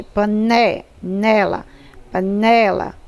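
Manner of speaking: "panela" in pieces, then whole, leaning on "né"; stress on NÉ. Shown as a demonstration. Teacher proving to pupils which syllable is stronger, stress on "né" in "panela". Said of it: "é mais forte".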